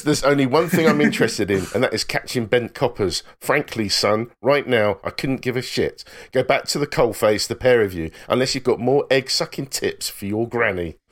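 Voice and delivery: lightly quoting the gruff Irish superintendent; Irish accent. Retold or imitated. Podcast host quoting Ted Hastings in a mild Irish accent. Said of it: "I'm not gonna do the Irish accent".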